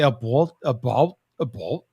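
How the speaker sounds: "a bolt" with a rounded long O in the second syllable; Canadian "about". Shown as a demonstration. Showing how Canadians say about, "a bolt" with rounded O. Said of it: "the way they say".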